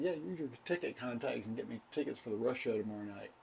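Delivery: low, muttered sarcasm; sarcastic angry proposal. Retold or imitated. Fired employee answers boss's offer, muttered sarcasm. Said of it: "my sarcastic, angry proposal".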